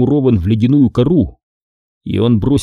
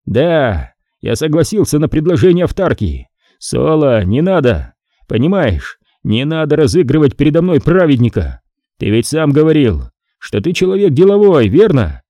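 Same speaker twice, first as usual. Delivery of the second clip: defensive traitor; 4 semitones higher than usual. Acted. Torm defends himself.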